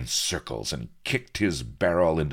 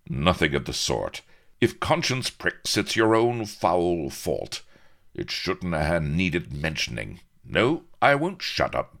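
mildly indignant officer, often louder; defiant; 4 semitones higher, 5 dB louder than usual. Acted. Captain refuses to shut up before angry pirates, haughty defiance. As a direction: stand your ground, stressing the principle. Captain defends himself against the crew.

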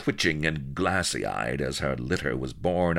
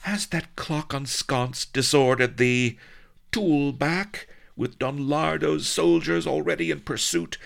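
much higher, exasperated vamp voice; indignant temptress; 11 semitones higher, 3 dB louder than usual. Acted. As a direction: scold him like a spurned vamp. Sheba's lines.

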